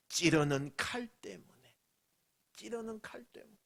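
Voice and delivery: breathy whispered repeat. Real, not acted. Preacher whispering to the congregation. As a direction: drop to a hushed whisper for effect.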